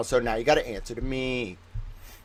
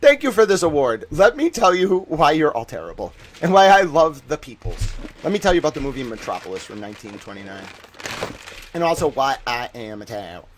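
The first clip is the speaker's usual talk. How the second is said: mock award speech. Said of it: "Can you imagine me up there just trolling people".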